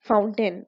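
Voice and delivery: "Fountain" said in two parts, foun-tain; two syllables. Shown as a demonstration. Teacher showing students two sounds, "Fountain" split in two. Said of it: "दो parts में इसको divide करके बोला".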